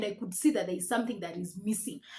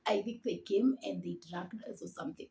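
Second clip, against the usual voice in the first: whispered aside; 6 dB quieter than usual. Real, not acted. Suspects they were drugged.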